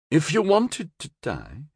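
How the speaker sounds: crisp reasoning from the director; director's voice. A narrator's reading. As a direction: director Yaki answers the beast. Yaki line, high.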